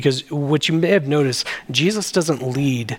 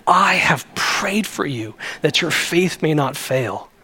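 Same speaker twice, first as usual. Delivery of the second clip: mean every word, slowly; earnest. Retold or imitated. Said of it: "He is earnestly saying".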